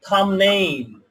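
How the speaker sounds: "থামনেইল" with no b after the m; silent B. Shown as a demonstration. Teacher giving an example of the rule, silent b in "থামনেইল". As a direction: go from m straight to n in "থামনেইল". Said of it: "বি এর উচ্চারণটা হবে".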